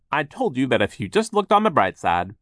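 high, loud, upbeat voice; cheerful worker voice. Acted. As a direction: reassure the worried sisters. Voiced Phil.

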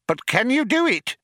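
high-pitched, eager question; eager urgency. Acted. Programmer presses the computer for an answer, eager urgency.

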